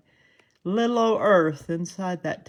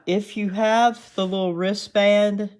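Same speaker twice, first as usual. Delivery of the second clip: real Southern twang slipping out, higher and louder; strong Southern accent; 4 semitones higher, 5 dB louder than usual. Real, not acted. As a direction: let your natural Southern accent come through. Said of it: "I heard my Southern accent strong there".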